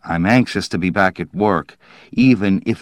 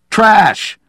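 higher, indignant rant bursting out loud; disgusted outburst; 5 semitones higher, 5 dB louder than usual. A narrator's reading. Dowland refusing to write science fiction, disgusted outburst. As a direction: spit out the contempt, voice raised. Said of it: "Disgustedly, he started toward the stairs".

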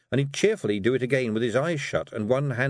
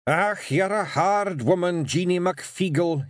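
high, louder gruff Scots grumble; growling Feegle; 9 semitones higher, 4 dB louder, slower than usual. A narrator's reading. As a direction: grumble it, disgusted by the letters. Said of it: "he said at last".

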